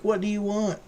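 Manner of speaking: high-pitched mock exasperation; pester-weary owner quizzing a dog; exasperated dog owner. Owner to his begging dog at night, exasperated high voice.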